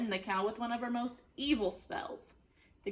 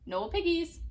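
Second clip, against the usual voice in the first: duck voice; 7 semitones higher, 4 dB louder than usual. Acted. Duck's reply.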